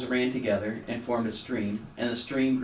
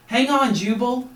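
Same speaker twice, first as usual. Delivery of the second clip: high, loud urgent call; anxious call; 13 semitones higher, 6 dB louder than usual. A narrator's reading. Rescuer urges the frog, anxious high loud call. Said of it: "an anxious voice called".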